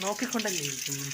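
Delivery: a hint of the actor's comic line reading; Innocent impression. Mother quoting a film line to her baby, lightly imitating Innocent. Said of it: "അപ്പൊ ഇന്നസെന്റ് പറയും".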